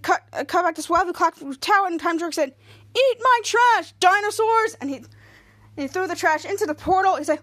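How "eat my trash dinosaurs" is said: high, emphatic acted call; villain's taunt. Time Jerker throwing trash into portal, high taunting call. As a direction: hurl the words out tauntingly.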